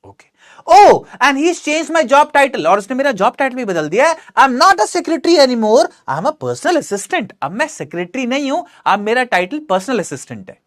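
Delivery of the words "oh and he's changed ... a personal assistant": higher, very slow character read; Noori's voice. Acted. Teacher voicing Noori explaining the boss. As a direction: explain it slowly in a lifted voice.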